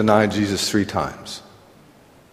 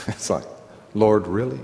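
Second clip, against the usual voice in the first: laughing; 2 semitones lower, 4 dB quieter than usual. Real, not acted. Laughing at his own tears.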